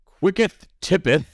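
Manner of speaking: mock archaic, slow and high; drawn-out faux Shakespearean; old English. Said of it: "as Rob says".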